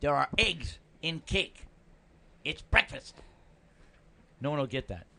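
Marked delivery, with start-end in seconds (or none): 0.0-3.2 Bill Cosby. Retold or imitated. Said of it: "Bill Cosby".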